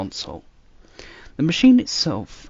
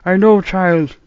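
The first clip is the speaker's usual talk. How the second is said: sighing; 9 semitones higher, 12 dB louder, slower than usual. A narrator's reading. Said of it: "with a sigh".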